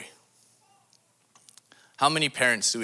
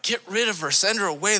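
dismissive disciples; 9 semitones higher, 4 dB louder than usual. Acted. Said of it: "His disciples are like".

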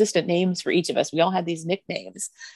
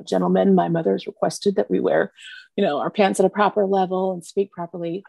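lightly imitated British accent; a hint of proper British diction. Son addressing his friends about mom's rules, British accent. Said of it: "in a British accent".

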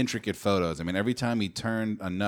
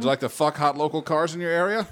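high, fast spam pitch; 8 semitones higher, 4 dB louder, faster than usual. Pretend. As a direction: sell it like a sleazy pop-up ad. Voicing spam pop-up ad.

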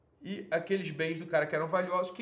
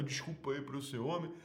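apologetic weak man. Retold or imitated. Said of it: "ele fica ou, né, falando".

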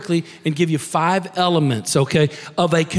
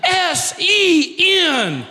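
laughing spell-out; 10 semitones higher, much slower than usual. Real, not acted. Misspelling sin, laughing.

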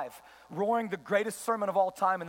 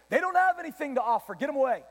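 higher, dismissive acted scolding; mock rebuke; 3 semitones higher, 3 dB louder, faster than usual. Disciples dismissing the children brought to Jesus, mock rebuke. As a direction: wave them off with mild scorn. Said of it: "They rebuked them".

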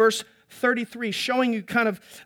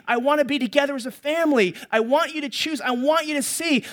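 God pleading; 5 semitones higher than usual. Acted. God voiced pleading in sermon.

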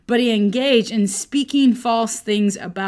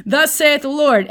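mock prophet proclamation; 5 semitones higher, 4 dB louder than usual. Balaam mock-proclaiming a blessing.

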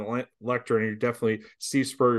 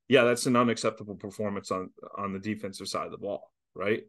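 understated, slightly lower delivery; calm admission; 3 semitones lower than usual. Acted. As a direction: calmly own up to it, voice settled a little low. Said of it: "you can say in a calm manner".

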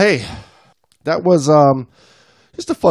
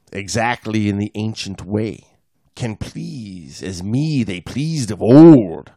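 poem reading; slower than usual. Acted. Reads a poem aloud.

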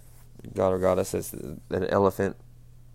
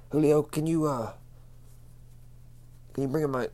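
calling out; 5 semitones higher than usual. Real, not acted. Calls to off-mic helper.

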